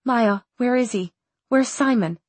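anxious questioning. Acted. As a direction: press anxiously for an answer. Urgently asking after missing friend.

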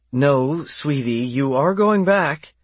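high, firm motherly voice; firm but gentle. Acted. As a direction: set her straight kindly. The speaker firmly corrects child.

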